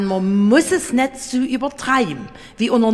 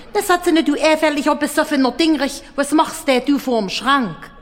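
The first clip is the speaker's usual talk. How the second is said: keifende Frau; 5 semitones higher, faster than usual. Acted. Lene schimpft den Betrunkenen.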